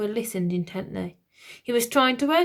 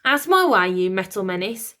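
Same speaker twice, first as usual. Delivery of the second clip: put-on cross old lady; 6 dB louder than usual. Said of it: "said the old lady".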